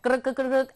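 rolled-r gibberish filler; nonsense filler noise. Shown as a demonstration. Teacher skipping over the details of an example, rolled nonsense noise. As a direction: rattle off nonsense syllables in place of words.

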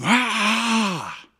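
long, high mock roar; drawn-out imitation roar; giant's shout. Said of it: "this giant was shouting".

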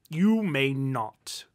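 slow, loud, dry cut-off; stern, deadpan interruption; dry refusal. A narrator's reading. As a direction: refuse drily, drawing out each word. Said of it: "Rupert stated dryly".

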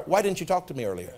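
soft, low, unhurried question without blame; gentle, not accusatory. Shown as a demonstration. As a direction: ask it softly, no edge at all. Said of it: "not accusatory".

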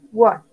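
WALKED said with a T ending; crisp T closing WALKED; final T sound. Shown as a demonstration. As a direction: say WALKED as "wokt", one syllable. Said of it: "sería como una T al final".

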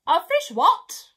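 high, slow, loud bird voice; puzzled pelican. Acted. Pelican puzzled by the strange word, loud and high. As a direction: ask it baffled, drawing it out.

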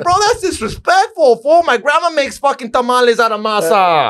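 high, outraged mock protest; playfully scandalised, voice jumping high; outraged disbelief. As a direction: pitch it way up like you can't believe your ears. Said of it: "I was like".

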